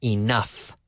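word by word, with gaps; slow, separated words; very slow model sentence. Shown as a demonstration. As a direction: spell it out slowly for learners.

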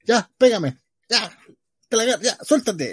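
high, impatient mock taunt. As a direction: taunt like a bored fighter. Mocking fighters waiting to be hit.

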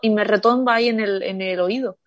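sore jaw, mouth barely open; after wisdom teeth. Real, not acted. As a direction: speak through a swollen jaw. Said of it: "no puedo abrir la boca". (después de sacarse las muelas del juicio)

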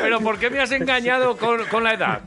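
hammed-up betrayal, high and loud; gasping soap opera drama. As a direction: play it like a wronged soap heroine. Host mock-betrayed over age trick.

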